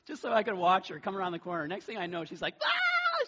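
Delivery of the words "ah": very high, loud mock shriek; imitated scream. Dad imitating his daughter chased by a crow, shrill scream. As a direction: imitate a panicked scream at full pitch. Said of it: "She's screaming".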